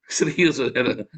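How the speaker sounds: amused, laughing aside. Real, not acted. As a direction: chuckle through the words. Preacher chuckles at his own claim.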